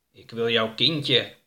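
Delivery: slow, drawn-out creepy voice; slow, lightly voiced monster; creepy creature. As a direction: stretch it out like an eerie being. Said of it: "riep het wezen met een griezelige stem".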